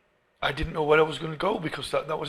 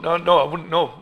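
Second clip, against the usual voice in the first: insistent no; 2 semitones higher, 8 dB louder than usual. Retold or imitated. Refusing his parents as a boy.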